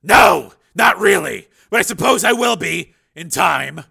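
tired, sad admission; sighing. A narrator's reading. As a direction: Steele answering the doctor wearily. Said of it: "he sighed".

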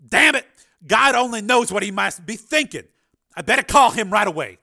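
loud, urgent cry of dismay; alarmed outburst. A narrator's reading. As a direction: blurt it in panic, then hurry on.

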